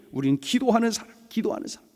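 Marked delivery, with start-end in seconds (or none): 1.3-1.9 soft whispered repeat; whispered echo. Real, not acted. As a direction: let the phrase settle in a hush. Whispered echo of previous line.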